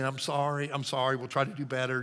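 soft, calm apology to an angry customer; calm clerk soothing an irate passenger; totally calm. Retold or imitated. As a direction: stay soft and unbothered. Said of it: "just totally calm".

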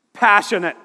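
mock the cliché with fake fervor; mock passionate. Shown as a demonstration. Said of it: "The heck does that mean?".

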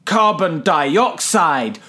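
mock caveman-simple explainer, slow in places; lightly played teacher dumbing it down; talking down to a child. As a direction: explain it like to a little kid, word by word. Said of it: "I am not a child".

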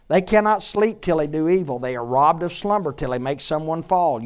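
emphatic preacher's reading; forceful scripture reading. Acted. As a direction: read the verse out to the room. Reads scripture aloud with force.

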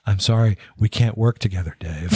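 calm computer voice; even AI drone; HAL. Retold or imitated.

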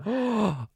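high sharp gasp. Real, not acted. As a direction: gasp in shock. Shocked at the idea.

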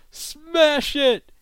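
high, loud barked order; urgent shout. Retold or imitated. Recapping a show, captain yells at Arthur to smash the flask, loud high shout. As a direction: yell it like the whole plan hinges on it.

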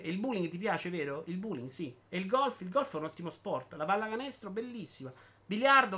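slightly lifted, emphatic reading voice; animated monologue reading. Acted. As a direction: declaim it like a public proclamation. Legge il monologo di Bitty. (lettura enfatica di un monologo)

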